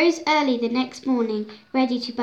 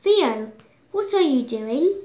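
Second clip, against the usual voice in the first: surprised; 3 semitones higher, 3 dB louder than usual. Acted. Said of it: "Lexa woke up of surprise".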